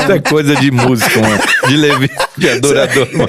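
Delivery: fast, laughing banter. Real, not acted. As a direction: laugh while teasing the musician. Laughing at the joke.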